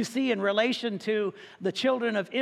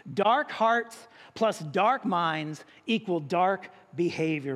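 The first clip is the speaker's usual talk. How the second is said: slow emphatic; 3 semitones lower, slower than usual. Acted. Preacher spells out the point.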